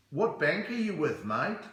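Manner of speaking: lightly mocked Australian accent; an Aussie asking casually, rising on "mate"; put-on Aussie twang. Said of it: "I love it when they talk like that".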